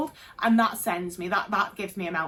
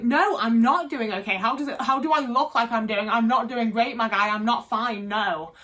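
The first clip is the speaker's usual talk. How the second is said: retold irritated reply; 4 dB louder than usual. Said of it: "And I would be like".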